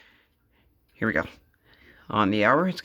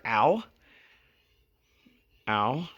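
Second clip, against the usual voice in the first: stubbed toe; 5 dB quieter, much slower than usual. Real, not acted. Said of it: "Sorry, I just stubbed my toe".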